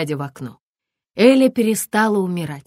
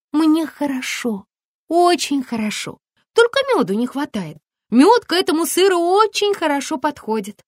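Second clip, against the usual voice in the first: cheerful exclaim; 10 semitones higher than usual. A narrator's reading. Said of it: "воскликнула Эль".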